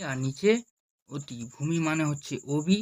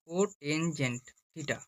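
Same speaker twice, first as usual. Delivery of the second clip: cotangent theta said slowly and softer; slow full word; 5 dB quieter, much slower than usual. Shown as a demonstration. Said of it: "সম্পূর্ণ ভাষায় কি বলা হয়".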